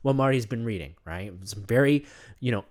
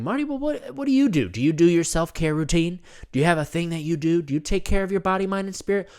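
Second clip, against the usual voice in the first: curious audience voice. Retold or imitated. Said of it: "You may be wondering".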